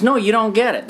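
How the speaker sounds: high, heated mock protest; angry. Husband snapping back at his wife, high and heated. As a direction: push back hard at her. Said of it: "he was really angry".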